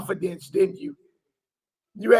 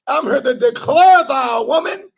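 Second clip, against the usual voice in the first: put-on old English declaration; 2 semitones higher, 4 dB louder than usual. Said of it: "he was speaking in old English".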